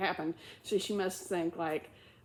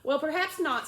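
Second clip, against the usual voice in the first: soothing; 7 semitones higher, 4 dB louder than usual. Acted. Alice soothing the mouse, gently coaxing. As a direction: soothe the upset little mouse. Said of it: "in a soothing tone".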